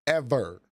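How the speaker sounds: Ever. said alone, firm and falling; emphasis on ever. Shown as a demonstration. Streamer stressing his point to chat, firm emphasis on Ever. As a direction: punch the single word Ever. hard. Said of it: "put an emphasis on that".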